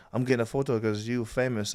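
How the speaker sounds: lightly put-on foreign accent, imitating a non-English speaker. Player retelling fans who don't speak English, mild put-on foreign accent. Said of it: "I don't know why I use that accent".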